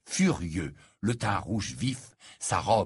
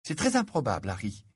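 disapproving tone. Acted. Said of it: "d'un ton qui trahissait une certaine réprobation".

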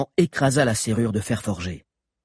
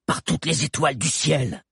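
mild, higher-pitched oath; exasperated yell; 5 semitones higher than usual. A narrator's reading. Hakan cursing while fleeing the pursuers, mild yell. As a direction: swear to the heavens with restrained force. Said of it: "hurla Hakan".

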